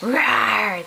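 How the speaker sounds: a light mock roar for a toddler; playful lion roar. Shown as a demonstration. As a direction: growl the roar out gently, like a pretend lion. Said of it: "What's a lion say?".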